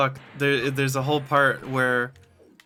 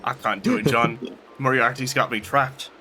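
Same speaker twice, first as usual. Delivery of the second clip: mock Sherlock; 4 semitones lower than usual. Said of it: "Sherlock voice again".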